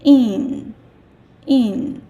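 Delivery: in spoken with a sharp falling tone. Shown as a demonstration. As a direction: drop the pitch hard on in. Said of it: "falling tone".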